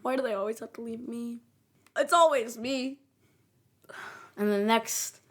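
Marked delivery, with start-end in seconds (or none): 0.0-3.0 self-pitying imitated whine, starting subdued; hammed-up woe-is-me; mock depression. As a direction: play at feeling sorry for yourself, voice rising at the end. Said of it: "Next is depression".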